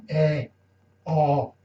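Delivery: "Eh, ah" with the mouth wide open; open-mouthed vowels. Shown as a demonstration. Teacher demonstrates the Creole accent, open-mouthed vowels. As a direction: open up fully on each vowel, "Eh", then "ah". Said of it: "you open the mouth".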